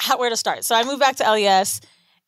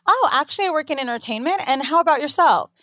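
own proper voice; 2 semitones higher than usual. Retold or imitated. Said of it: "reply to her in my voice like".

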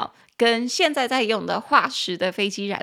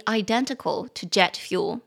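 identical read slowly, stress on the second syllable; slower than usual. Shown as a demonstration. Teacher reading the news sentence aloud, slowly. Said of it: "重音节在第二音节".

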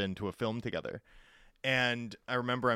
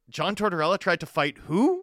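disbelieving question; 6 semitones higher, 7 dB louder than usual. Retold or imitated. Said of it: "and I'm like".

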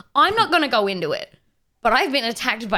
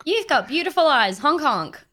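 silly clown. Pretend. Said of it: "goose has fallen in love".

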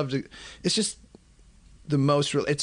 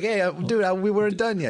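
mock high voice; 10 semitones higher than usual. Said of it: "I'll be like".

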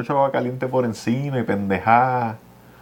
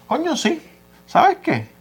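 mock eager boyfriend. Retold boyfriend's eager proposal.

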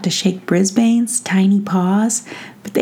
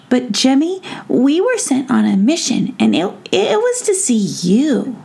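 lightly voiced little gnome, pitched up; a higher, earnest gnome voice; 6 semitones higher than usual. Tom Gnome tells Jemmy of his mission, lightly voiced and earnest.

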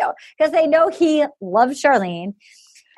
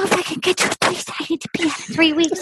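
put-on little baby girl. Mimicking a contestant leaving after three weeks, mock baby-girl voice. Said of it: "like a little baby girl".

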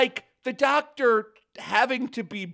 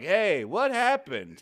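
wooden line reading; 2 semitones lower, slower than usual. Retold or imitated. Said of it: "His one line is like".

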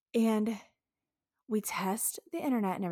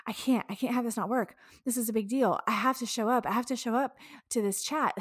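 retold panic; 2 semitones higher, faster than usual. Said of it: "I start panicking and I was like".

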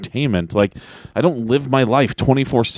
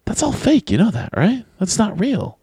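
mock condescending; 10 semitones higher than usual. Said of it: "I just wanna say to them".

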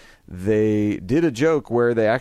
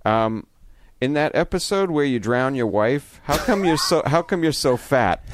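Peter at convention; 5 semitones higher than usual. Retold or imitated. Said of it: "He says".

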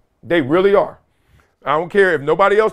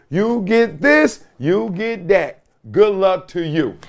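promo pitch; 2 semitones higher, slower than usual. Real, not acted. Slow promo read for site.

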